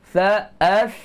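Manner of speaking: "Sa, as" with the breath and voice flowing freely, airy s. Shown as a demonstration. Teacher demonstrates to students the airy sa with breath released. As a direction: let the air and voice escape on "Sa, as". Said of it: "Suara juga terlepas".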